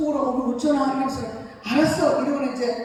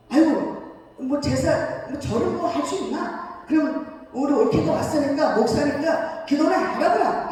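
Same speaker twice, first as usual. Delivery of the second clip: put-on a light Gyeongsang accent, slowing at the end; lightly imitating a Gyeongsang relative; Gyeongsang dialect; 3 semitones higher than usual. A relative shrugging off the ancestral rite, in light Gyeongsang dialect. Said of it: "경상도 말로".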